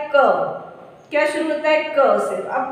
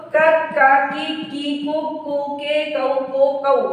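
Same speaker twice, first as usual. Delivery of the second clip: the barakhadi read a bit quicker, syllables running on; faster recitation; slower than usual. Shown as a demonstration. Teacher reading the barakhadi a little faster for practice. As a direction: run through the syllables at speed. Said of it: "थोड़ा सा speed में पढ़ते हैं".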